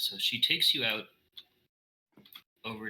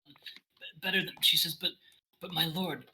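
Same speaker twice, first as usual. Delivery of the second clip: mild crying; 5 semitones higher than usual. Acted. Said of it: "she's crying".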